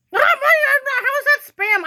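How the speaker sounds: high, slow and drawn out in disbelief; incredulous question. Real, not acted. Ranting at Threads over the spam flag, slow incredulous disbelief. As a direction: stretch it out, can't believe it.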